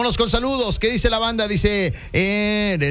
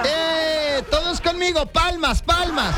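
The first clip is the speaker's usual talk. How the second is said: put-on high, lively children's host voice; kids show host; 7 semitones higher, slower than usual. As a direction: lead the kids in clapping. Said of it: "La animadora infantil".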